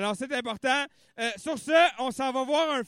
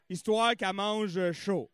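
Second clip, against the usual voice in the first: normal talking voice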